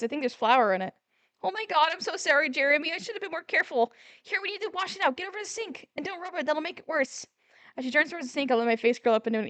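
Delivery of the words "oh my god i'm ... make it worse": higher, softer fretful voice; anxious Christine. Acted. Christine worried about Jeremy's eye, higher and soft. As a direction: fuss over him, apologetic.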